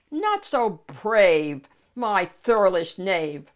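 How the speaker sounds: slow, lightly voiced mocking knight; knight countering. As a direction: taunt slowly like a knight. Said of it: "countered the knight".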